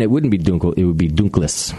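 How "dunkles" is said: Dunkles as "DOON-kless"; German oo and final S in Dunkles; German pronunciation. Shown as a demonstration. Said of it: "if it was German".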